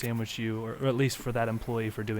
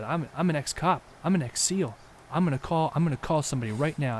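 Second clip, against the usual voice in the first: higher and louder, boastful threats; mock angry threat; 5 semitones higher, 4 dB louder than usual. Storyteller as the ragged man shouting threats at the couple. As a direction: puff yourself up and yell, pitched up.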